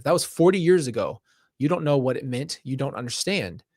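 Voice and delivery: angry defensive elder. Pretend. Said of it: "Elder one, angry and defensive".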